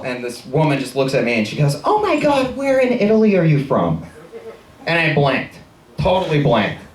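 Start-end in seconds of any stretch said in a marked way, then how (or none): 1.8-4.0 high-pitched imitation of a thrilled customer; mock gushing. Customer asking the waiter about Italy, mock gushing. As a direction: gush it high, then come down. Woman gushes at fake Italian waiter.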